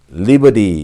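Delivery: American "liberty" as "liber-ee", T flapped; American model word "liberty", T softened away; American pronunciation. Shown as a demonstration. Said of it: "미국식 발음이죠".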